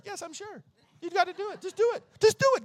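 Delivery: put-on high, eager kid voice pushing him; lightly voiced eager boy urging; ten-year-old boy. Boy in church urging the teen to tithe, high eager voice.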